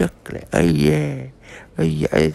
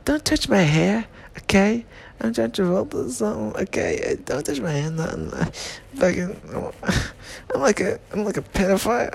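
lightly voiced Travolta, a bit higher; a loose, slightly raised celebrity voice; John Travolta impression; 3 semitones higher than usual. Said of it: "That's my John Travolta impression".

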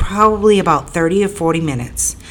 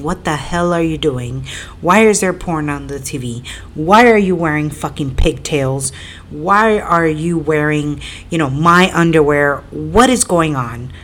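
retold angry yelling.

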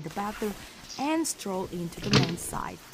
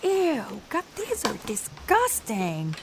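disgusted; 3 dB quieter, slower than usual. Acted. Woman alone finds dirty pajamas, grossed out. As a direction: recoil from something filthy.

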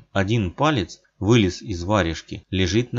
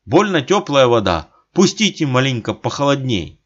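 хрипит; 5 semitones higher, 5 dB louder than usual. A narrator's reading. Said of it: "хрипит".

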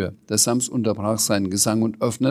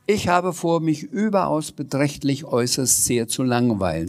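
Sams voice; 3 semitones higher than usual. Acted. Sams voice in story.

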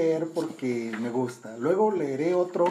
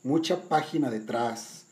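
poem reading. Acted. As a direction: recite it like verse. Reads the song poem aloud.

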